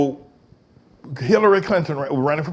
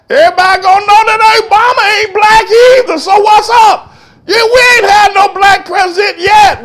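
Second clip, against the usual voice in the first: shouting; 10 dB louder than usual. Real, not acted. Comedian's building rant peak.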